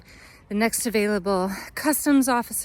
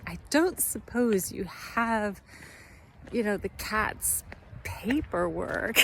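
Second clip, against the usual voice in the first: grave bracing; 6 dB quieter, slower than usual. Retold or imitated. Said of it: "he was, like, really bracing himself".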